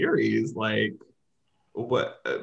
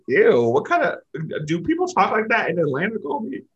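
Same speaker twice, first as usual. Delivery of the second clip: baffled, amused disgust, pitched up; grossed-out retold reaction; 7 semitones higher, 4 dB louder than usual. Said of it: "I was like".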